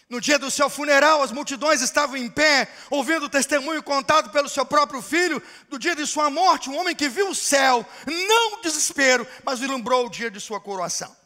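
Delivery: loud, high pulpit delivery; fervent preaching. Acted. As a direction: preach it to the crowd. Preaching at full force.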